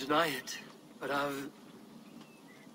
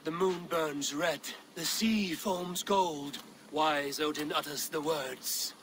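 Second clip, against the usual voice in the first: slow, solemn bardic telling; saga recital; slower than usual. Acted. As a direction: intone it like an ancient skald. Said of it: "Sing me one of your sagas".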